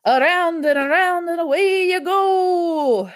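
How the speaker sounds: loud, high, stretched-out singsong call; Clank's catchphrase. Acted. Clank throwing Orbis to make monsters grow, big singsong wind-up. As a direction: wind it up like a showy launch. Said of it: "it was always".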